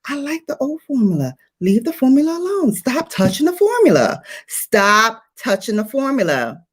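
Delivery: fast, pleading mock nag; hammed-up fed-up fan scolding; mock complaint to a brand. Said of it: "She be changing the formula".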